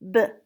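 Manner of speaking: B-R-E-A-T-H as four isolated sounds: b, r, eh, th; tapped sound by sound. Shown as a demonstration. Teacher tapping out breath, B-R-E-A-T-H sound by sound. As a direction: sound out B-R-E-A-T-H with long gaps, not letter names. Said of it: "Let's tap it".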